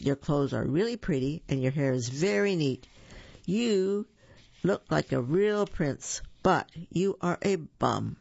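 a lightly voiced princess, sweet then cutting; lightly voiced princess, mock-sweet put-down; princess telling him off. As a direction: tease the prince with mock praise, then drop the insult. Elizabeth voiced telling Ronald off.

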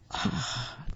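soft, breathy "ah" of relief; relieved sigh. A narrator's reading. Storyteller sighs at food that's just right, relieved sigh. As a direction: let out a contented sigh.

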